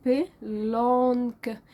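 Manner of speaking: بلانك stretched slowly with silent c; slow French blanc. Shown as a demonstration. Teacher showing the silent letter, saying blanc slowly. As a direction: model بلانك slowly, dropping the final c. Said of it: "حرف السي ومش هنطقه".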